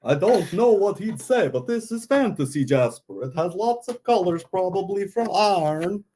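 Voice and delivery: bat puppet with a put-on Texas twang; Vlad's Texas accent. Bat puppet explaining a stone, put-on Texas accent. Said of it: "where'd you get that accent".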